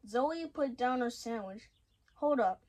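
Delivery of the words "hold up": sudden loud stop. Acted. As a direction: call out hold up sharply. Surprised listener stops her friend.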